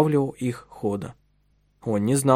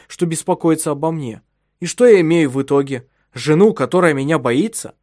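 raised, louder bitter outburst; the husband vents his anger at his frightened wife, raised and bitter; furious husband; 4 semitones higher, 3 dB louder than usual. Acted. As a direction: let years of restraint crack. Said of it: "в ярости".

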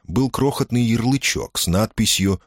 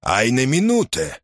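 irritated; 5 semitones higher than usual. Acted. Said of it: "раздражённо ответил Мюллер".

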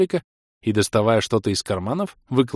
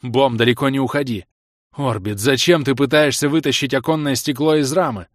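shouted orders; 3 semitones higher, 4 dB louder than usual. Acted.

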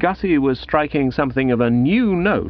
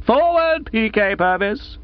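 summoning call; 10 semitones higher than usual. Acted. Gussie summons the boy.

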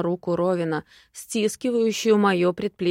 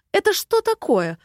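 threatening; 12 semitones higher, 5 dB louder than usual. Acted. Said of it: "угрожающе спросила".

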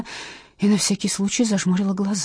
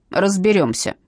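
barked; 2 semitones higher, 4 dB louder than usual. Acted. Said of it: "рявкнула Матросова".

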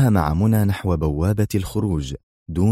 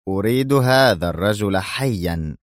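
slow, mild growling order; a touch of rage, drawn out; roaring in fury. Acted. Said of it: "وهدر صوته في ثورة". (زئير غاضب خفيف وبطيء)

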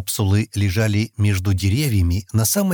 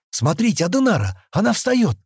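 excited; 10 semitones higher than usual. A narrator's reading. Kenny notices Adenara rising.

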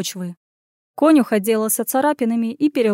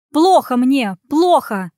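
faked distress; 3 semitones higher, 5 dB louder, slower than usual. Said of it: "сипела и кашляла".

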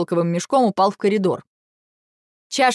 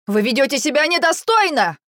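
shrill squeal; 6 semitones higher than usual. A narrator's reading. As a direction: squeal it out in panic. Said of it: "взвизгнул Павлик".

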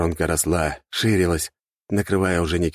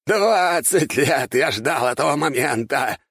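manic triumph; 10 semitones higher, much slower than usual. A narrator's reading. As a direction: gloat almost laughing. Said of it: "Он хохотал".

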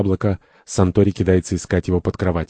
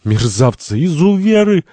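despairing; 10 semitones higher, 3 dB louder than usual. Acted. Santori beaten by his tormentors, despairing. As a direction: cry climbing to a high, loud wail. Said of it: "Сантори в отчаянии".

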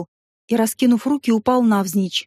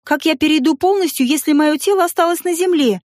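flaring up; 4 semitones higher than usual. Acted. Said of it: "вспылила я".

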